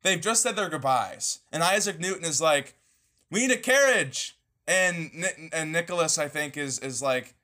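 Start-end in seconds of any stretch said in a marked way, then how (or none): 3.3-4.4 higher-pitched acted demand, mildly indignant; mock indignant demand. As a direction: retell it as a put-out character. Acting out bickering characters' dialogue.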